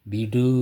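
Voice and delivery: விடு with a strong, held oo at the end; fully sounded u. Shown as a demonstration. Teacher showing the u in விடு, held full ending. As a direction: lift and hold the final u of விடு. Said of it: "ஊ என்பது".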